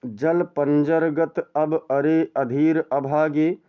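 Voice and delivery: slow, drawn-out verse reading; poem recitation. Shown as a demonstration. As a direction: savour each word of the verse. (धीमा काव्य पाठ)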